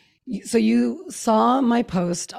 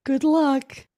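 sarcastic; 7 semitones higher than usual. Retold or imitated. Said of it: "we're just like".

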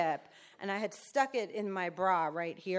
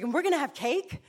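higher, lightly voiced cheery sponsor; 8 semitones higher, 4 dB louder than usual. Sponsor promises birthday cake, lightly voiced cheer. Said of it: "she's like".

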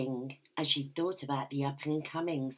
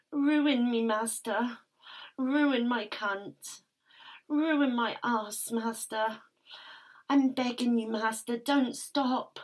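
urgent pleading; 8 semitones higher, 4 dB louder, slower than usual. Acted. Urgent begging at climax.

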